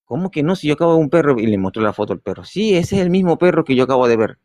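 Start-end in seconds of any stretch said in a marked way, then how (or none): 0.1-1.4 higher-pitched, indignant insisting; retold insistence. Customer insists to the owner she just saw the dog, insistent. 2.4-4.4 higher-pitched emphatic confirmation; retold insistence. Customer confirms from the photo it is that dog, emphatic.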